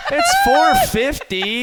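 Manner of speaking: high, slow whiny whine. Retold or imitated. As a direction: whine it out like a sulky kid. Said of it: "She's got this total whiny voice".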